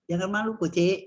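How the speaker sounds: "Jangan malu" as a command, "kucing" as the one addressed; intonasi kalimat. Shown as a demonstration. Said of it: "kalau kita mau jadikan kalimat juga bisa". ("Jangan malu, kucing" sebagai kalimat sapaan)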